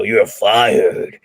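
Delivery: lightly voiced boss saying "You're fired" with a firm fall; a hint of a TV boss, "You're fired" snapped short; boss firing someone. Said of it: "He's like, you know".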